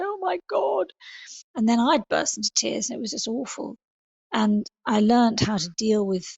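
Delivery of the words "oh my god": much higher mock-tearful "Oh my God"; high, gushing imitation of a sympathetic friend; gushing sympathy. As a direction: imitate a friend welling up with pity. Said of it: "hug me and go".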